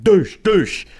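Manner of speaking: high-pitched whooshing impact noises; playful fight sound effects; imitated blow sounds. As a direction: voice two punches landing. Imitating blows in retold fight.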